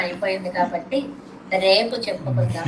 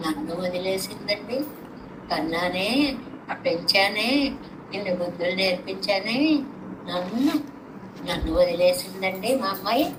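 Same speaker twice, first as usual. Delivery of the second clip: grieving mother; 3 semitones lower, 4 dB quieter than usual. Acted. Mother lamenting her daughter left.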